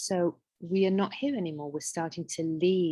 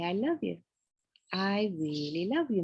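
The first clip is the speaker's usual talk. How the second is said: tender self-love. Shown as a demonstration. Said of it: "and you say".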